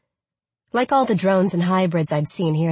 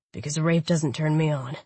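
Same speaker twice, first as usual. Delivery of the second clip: lightly voiced smug man. A narrator's reading. Khan voiced by narrator.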